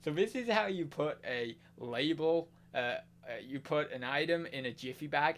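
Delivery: light American accent, imitating a streamer; hint of an American streamer voice; mock American accent. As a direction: slip into a casual American accent. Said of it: "I always go American".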